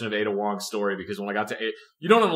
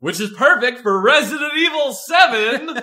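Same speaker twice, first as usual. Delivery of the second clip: laughing; 13 semitones higher, 8 dB louder than usual. Real, not acted.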